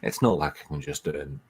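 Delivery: pushing the voice down low; forcing a deep voice. Shown as a demonstration. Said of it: "naturally deepen my voice and talk like this".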